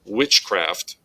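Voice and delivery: "witchcraft" with the weight on witch; stress on first syllable. Shown as a demonstration. Teacher illustrating trochaic stress, "witchcraft" stressed on witch. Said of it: "the word witch gets the emphasis".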